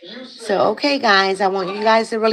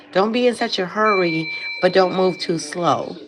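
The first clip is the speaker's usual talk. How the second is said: sucking a lollipop. Real, not acted. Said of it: "sorry, I have a lollipop".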